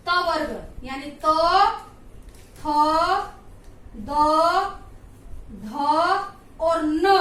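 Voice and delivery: त, थ, द said alone with long pauses; slow consonant sounds. Shown as a demonstration. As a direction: sound out each dental alone. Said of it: "अगर हम इनके उच्चारण को देखें".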